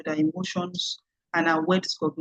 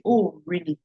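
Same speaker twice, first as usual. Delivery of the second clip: surprised oh. Shown as a demonstration. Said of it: "with emphasis on the "Oh" to convey your surprise".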